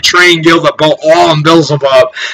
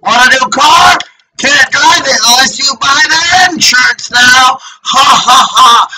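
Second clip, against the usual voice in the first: mocking gloat; 4 semitones higher than usual. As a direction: play a gloating tormentor. Voices a gloating mocker with fake laughs.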